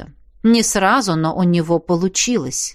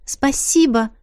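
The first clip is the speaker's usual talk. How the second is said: smiling; 6 semitones higher than usual. Acted. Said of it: "улыбнулась девушка".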